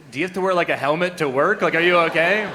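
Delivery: loud, high condescending worry; pitying concern. Retold or imitated. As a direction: talk down as if to a patient. Europeans pitying monolinguals.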